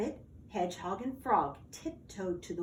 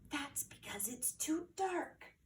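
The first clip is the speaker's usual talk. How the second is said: soft, higher hushed whisper; 5 semitones higher, 9 dB quieter than usual. Acted. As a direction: whisper so the monster won't hear. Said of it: "whispered Frog".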